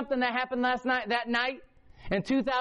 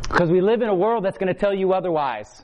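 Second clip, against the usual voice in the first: lower, louder preaching; a loud, low call to listen; loud exhortation; 3 semitones lower, 4 dB louder than usual. Real, not acted. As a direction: drive the point home.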